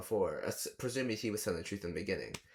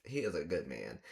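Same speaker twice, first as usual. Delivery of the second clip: talking to the character; 7 semitones lower, 4 dB quieter than usual. Retold or imitated. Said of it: "I'm like".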